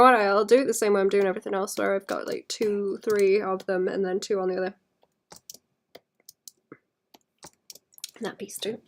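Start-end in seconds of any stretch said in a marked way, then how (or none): 3.0-8.8 holding back hiccups; talking through hiccups; suppressing hiccups. Real, not acted. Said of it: "sorry, hiccups".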